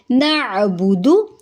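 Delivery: नाअबुदु slowly with a short दु; correct recitation. Shown as a demonstration. Teacher recites नाअबुदु correctly, slow. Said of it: "नाअबुदु पढ़ेंगे".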